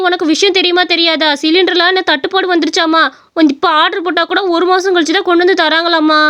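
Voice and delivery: neighbours, anxious. Acted. (உயர்ந்த குரலில் அவசரப்படுத்தும் அக்கம்பக்கத்துப் பெண்கள்)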